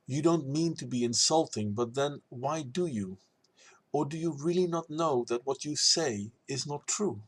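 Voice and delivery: measured rhymed rebuttal in verse; verse recital. Acted. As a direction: recite it as a spoken poem reply.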